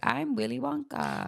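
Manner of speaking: high, slow, half-hearted showman; lightly voiced lazy Wonka actor; limp Willy Wonka impersonator.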